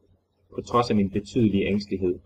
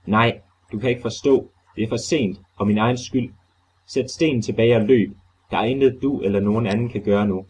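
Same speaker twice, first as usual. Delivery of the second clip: raised, despairing plea; desperate cry; 2 semitones higher, 3 dB louder than usual. Acted. Warren tells Carter it is too late, despairing cry. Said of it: "et desperat skrig af fuldstændig fortvivlelse".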